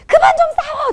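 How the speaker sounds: high, loud scolding yell; angry shout. Acted. Frazzled mother yelling at fighting children, angry shout. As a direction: burst out, voice shooting up.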